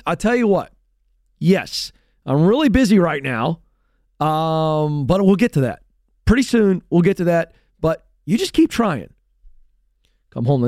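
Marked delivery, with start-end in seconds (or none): 0.1-9.1 put-on higher, brisk dad fobbing his kid off; dad too busy to teach his kid, higher and brisk. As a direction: put him off, cheerfully distracted.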